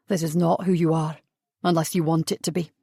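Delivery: a hint of a grave husband; stern low man voice.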